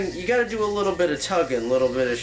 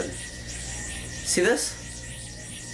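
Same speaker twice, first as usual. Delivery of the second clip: unvoiced whisper; 3 semitones higher, 6 dB quieter than usual. Real, not acted. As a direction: breathe it softly. Whispered aside.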